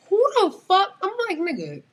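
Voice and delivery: high, loud yell; screaming. Retold or imitated. She screams at the coworker in the kitchen, loud. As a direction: scream it out in fury. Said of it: "now I'm screaming".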